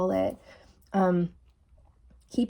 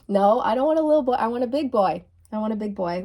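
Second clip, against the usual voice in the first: teasing; 2 semitones higher, 4 dB louder, faster than usual. Retold or imitated. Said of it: "kinda joke and say".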